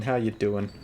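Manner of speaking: "How you doing?" with weight on "How", falling; stress on how. Acted. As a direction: lean into "How", then let it drop. Repeats greeting, different ways.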